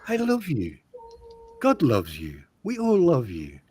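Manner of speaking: mock-tender, each phrase sliding down; shower a troll with playful affection; sending love. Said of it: "just send love. Just go".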